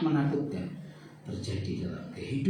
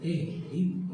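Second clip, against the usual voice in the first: mild snap; 3 semitones higher, 4 dB quieter than usual. Shown as a demonstration. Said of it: "Apakah bentaknya".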